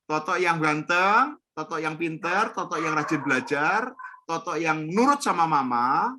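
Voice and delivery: put-on shower the child with praise; praising a child. Shown as a demonstration. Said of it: "Kalau dia sebutnya nama". (memuji anak dengan lembut)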